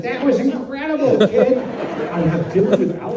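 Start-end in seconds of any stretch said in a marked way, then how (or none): 0.0-1.6 higher, louder mock admiration; impressed Lynch. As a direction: gush like an amazed jury head. David Lynch praising the film.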